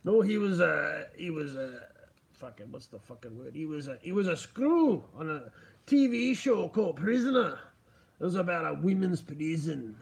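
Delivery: badly faked Scottish accent, searching for words; wobbly imitation of a Scottish accent; failing Scottish accent. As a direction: let the attempted Scottish brogue slip. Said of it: "Oh, it's getting worse".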